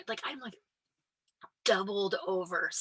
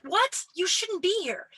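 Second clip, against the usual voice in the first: high, loud mock outrage; mock shocked coworker; 11 semitones higher, 4 dB louder, slower than usual. Imagined coworker shocked she walks out, mock outrage. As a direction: pitch it way up like someone scandalized. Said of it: "No one's like".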